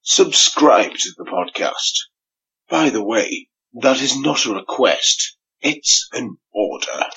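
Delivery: slow, commanding promo read; podcast bumper. Acted. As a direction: order the listeners to subscribe, slowly. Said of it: "I asked him to do a bumper".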